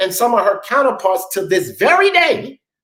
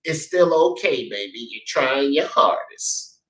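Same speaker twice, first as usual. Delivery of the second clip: mock coddling; 6 semitones lower, 3 dB quieter than usual. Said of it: "let your child grow up to think".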